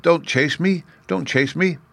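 high-pitched, understated fearful plea; frightened. A narrator's reading. China princess pleads with the girl chasing her, mildly frightened. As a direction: plead in a little voice, a touch afraid. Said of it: "such a frightened little voice".

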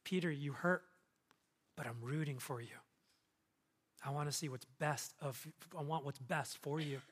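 quiet, caring encouragement with pauses; tender reassurance. Acted. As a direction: gently show you are on their side. Voicing Jesus consoling and encouraging Peter.

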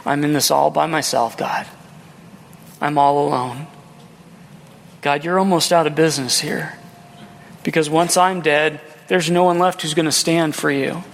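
low, subdued lament to God; dejected complaint. Retold or imitated. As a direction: complain wearily, as if left all alone. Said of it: "he complains to God".

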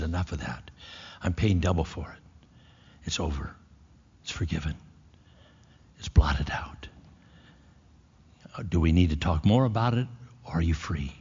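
soft, hushed reassurance, almost a whisper; lightly voiced God, gently telling it's over; tender forgiveness. Preacher voicing God to the guilty listener, soft and tender.

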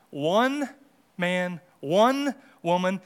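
"one" leaned on and set apart by pauses, slow; stress on ONE. Shown as a demonstration. Preacher defining marriage for the congregation, stress on "one". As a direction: weigh each "one" slowly before its noun. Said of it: "emphasis on".

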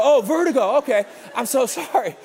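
high, loud dawning understanding with a little laugh; sudden realization. Retold or imitated. Young minister finally understands, exaggerated realization. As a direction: overdo the relief of finally getting it.

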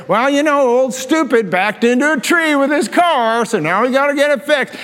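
a hint of a dismissive father talking down; mocking father. Father sneering about his older son, lightly voiced scorn.

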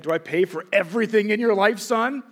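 a lightly voiced stern father driving it home; demanding dad. Dad listing what he provides.

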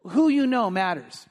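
"Who" punched at the start; stress on who. Real, not acted. Pastor repeating his point, "Who" stressed. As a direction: lean hard on "Who". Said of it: "here's where I'm going".

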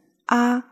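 "ah" in the third tone of agreement. Shown as a demonstration. Teacher showing ah used for agreement, third-tone "ah". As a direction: give "ah" its third tone. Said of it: "as the third tone".

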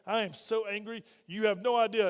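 imitated anger. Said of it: "rage cranks up".

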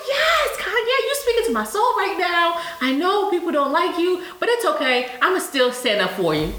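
high, giddy fan gush. Retold or imitated. Fan tells a rapper he speaks to her soul, gushing high. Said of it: "I be like".

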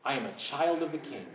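soft whispered repeat; hushed affirmation. Shown as a demonstration. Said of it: "whisper that with me".

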